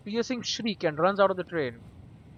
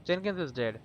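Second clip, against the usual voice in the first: softer, gentle breaking of bad news; 5 dB quieter than usual. Shown as a demonstration. Gently telling the stranger his friend Jenkins died, soft. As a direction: ease the news to him softly. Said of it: "Be gentle".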